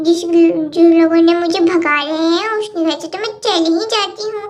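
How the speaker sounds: lightly voiced bickering kids, getting cross; squabbling little girls. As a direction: play two little girls fighting over a toy set. Cartoon kids quarrel continues.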